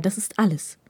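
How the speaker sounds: whispered sharp hiss. Acted. Hirakawa hisses a warning to Takeda, whispered. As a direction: hiss it under your breath. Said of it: "zischte Hirakawa ihm zu".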